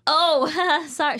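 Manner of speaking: loud, high retold apology with a laugh; hammed-up awkward outburst; embarrassed apology. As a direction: laugh through a mortified sorry.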